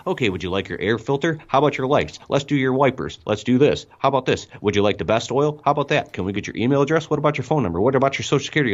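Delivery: oil shop clerk piling on questions; pushy oil shop clerk. Retold or imitated. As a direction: rattle off add-ons like a pushy salesman. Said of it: "when you go into the oil shop".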